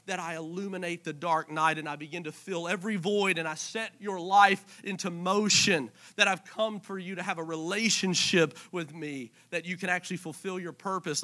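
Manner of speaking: God speaking close, softly; hushed voice of God. Acted. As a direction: lean in and murmur the promise. Voicing God, growing intimate.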